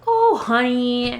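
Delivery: drawn-out gentle oh honey; slow soothing grandma. Retold or imitated. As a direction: comfort a scared granddaughter. Grandma comforting her.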